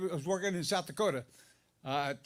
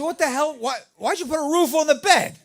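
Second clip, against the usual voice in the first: mock surprise; 7 semitones higher, 7 dB louder than usual. Shocked at the bed canopy.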